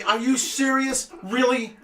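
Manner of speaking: cause a scene in the grocery aisle; making a scene. Retold or imitated. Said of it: "I'm making a scene in the store".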